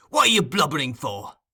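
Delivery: angry scoff. Acted. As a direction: scorn his tears. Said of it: "Fagin angrily".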